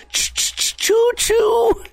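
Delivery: high shouted choo-choo train call; train whistle. Pretend. Train noise after stutter.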